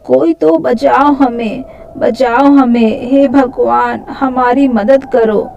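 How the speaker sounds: understated frightened plea for rescue; crying out for help. Acted. Frightened girls call on God for help, pleading cries. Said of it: "चिल्लाने लगती है".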